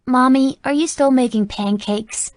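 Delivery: put-on high eager child voice; a small boy tugging for attention; toddler voice. Toddler interrupts mother.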